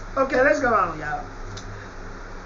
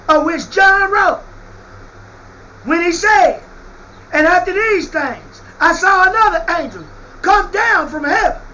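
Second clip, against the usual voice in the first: hammering the scripture home; fiery preaching; 3 semitones higher than usual. Acted. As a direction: preach it with full force. Preaching at full force.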